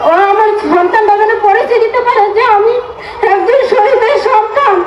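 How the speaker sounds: tearful, sobbing through words; crying. Real, not acted. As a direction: voice breaking into sobs. Widow pleads, voice breaking.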